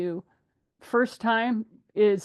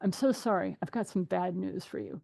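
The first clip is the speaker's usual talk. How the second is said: soft, sorry tone to brace them; softly breaking bad news to a client; gentle bad news; 4 dB quieter than usual. Shown as a demonstration. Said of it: "That's the way you phrase it".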